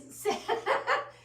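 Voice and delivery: high, loud giggling burst; burst of laughter. Real, not acted. Host cracks up at Jason's comment, laughing.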